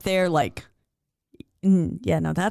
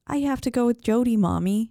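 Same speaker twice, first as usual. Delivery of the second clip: a hint of a small child, pitched higher; lightly voiced little girl; 5 semitones higher than usual. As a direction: answer innocently like a little kid. Little girl speaking to her mom.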